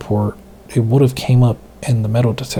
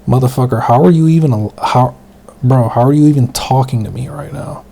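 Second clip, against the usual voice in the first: incredulous shout; 4 dB louder than usual. Retold or imitated. Shocked reply to grandpa.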